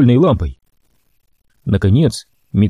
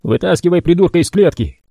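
higher, gruff order; grim mutant Bodie; 6 semitones higher than usual. A narrator's reading. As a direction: tell the brother what mama wants.

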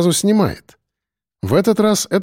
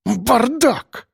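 snorting; 10 semitones higher than usual. A narrator's reading. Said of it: "фыркнул Быков".

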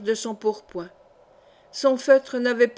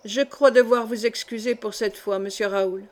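dignified tone. Acted. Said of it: "prononça-t-il d'un ton digne".

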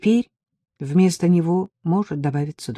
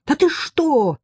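shocked cry; 11 semitones higher, 3 dB louder, slower than usual. A narrator's reading. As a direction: voice shoots far higher in alarm. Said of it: "закричала я".

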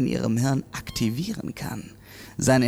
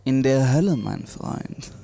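theatrical; 4 dB louder than usual. Acted. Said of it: "Vielleicht sollte ich es etwas weniger theatralisch versuchen".

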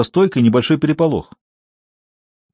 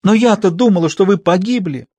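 exclaimed; 7 semitones higher than usual. Acted. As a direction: cry it out melodramatically. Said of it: "воскликнула Клара, заламывая руки".

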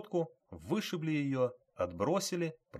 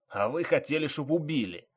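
indignant retort, raised in pitch and volume; wounded yelling; 5 semitones higher, 4 dB louder than usual. A narrator's reading. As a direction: throw it back as an aggrieved injured man. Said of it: "орал раненый водитель".

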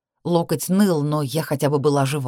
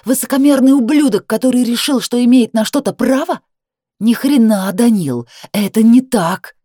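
higher, louder furious shout; furious yell; 6 semitones higher, 7 dB louder than usual. Acted. Woman screams insults at her ex, higher and louder. She yells at Danil.

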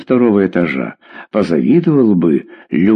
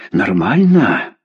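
incredulous echo; slower than usual. Acted. Mother echoing daughter's excuse, incredulous. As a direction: repeat Нормально slowly, as a challenge.

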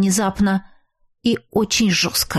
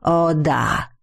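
smiling; 4 semitones lower than usual. Acted. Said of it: "с улыбкой отозвался тот".

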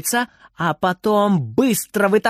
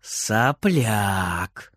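granny's retort; 7 semitones lower, 4 dB quieter than usual. A narrator's reading. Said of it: "тоже громко и отчётливо".

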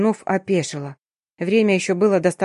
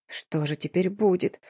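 slow, much softer whine; whimpering; 6 dB quieter, slower than usual. Acted. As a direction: whimper it helplessly. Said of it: "проскулила я".

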